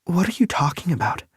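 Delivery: whirl on him with an indignant question; Lake's voice. A narrator's reading. Lake confused.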